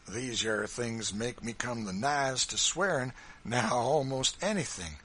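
Kentucky farmer close to cursing; stirred-up farmer. Acted. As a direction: indignation nearly boiling over. John nearly swearing with feeling.

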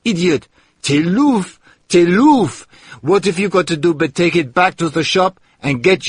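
high, loud, giddy scolding; dance about and berate him with glee; excited shout. Acted. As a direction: maid excitedly berates the man over the bottle. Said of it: "She got so excited".

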